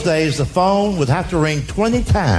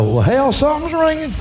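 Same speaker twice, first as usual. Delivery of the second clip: lightly voiced daddy; 5 semitones higher than usual. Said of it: "Daddy would go".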